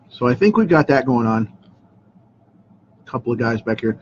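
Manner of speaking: talking while crunching a lozenge; words around a crunching throat drop. Real, not acted. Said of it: "If you hear me crunching on my throat chop".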